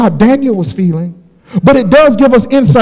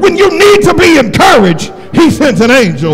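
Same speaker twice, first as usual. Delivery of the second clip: preaching at full force; 3 semitones higher than usual. Acted. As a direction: whoop it up to the congregation. Preacher climaxes again.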